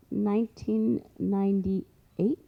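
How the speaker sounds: slow, drawn-out, rising at the end; hesitant recall. Real, not acted. Storyteller searches memory for the year, slow and unsure. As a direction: stretch it out while working it out.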